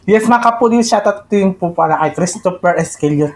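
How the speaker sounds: excited. Real, not acted.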